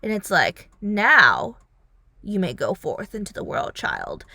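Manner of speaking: a hint of a grand, hushed father blessing; solemn father. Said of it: "and it was just like".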